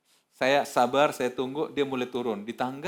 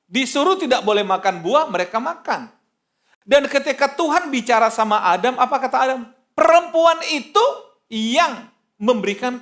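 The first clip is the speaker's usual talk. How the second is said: loud, high-pitched pulpit oratory; raised, emphatic sermon voice; full-force preaching; 11 semitones higher, 10 dB louder than usual. Real, not acted. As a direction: drive each point home to the congregation.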